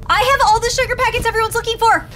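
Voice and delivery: triumphant, showing off; excited boast. Real, not acted. Triumphant announcement.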